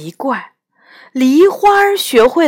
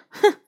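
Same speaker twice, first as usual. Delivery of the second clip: indignant humph; 5 dB quieter than usual. Acted. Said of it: "不服气地哼了一声".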